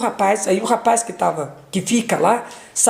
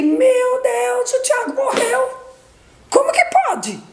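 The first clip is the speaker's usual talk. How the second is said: retold scream. Mother retelling the news of her son's death, mock scream. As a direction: re-enact a shocked wail, pitched way up. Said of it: "eu gritei".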